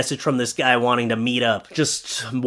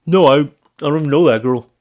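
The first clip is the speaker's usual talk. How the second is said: panicked denial; 5 dB louder, faster than usual. Retold or imitated. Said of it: "he was like".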